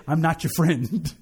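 slow, firm and measured; stern dad, slow. Retold or imitated. Dad setting boundaries with his son, slow and firm. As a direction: put the child in his place, slowly. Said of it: "my dad looking me dead in the eye".

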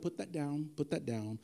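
lightly voiced Jesus telling off a follower; weary Jesus scolding. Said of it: "Jesus is like".

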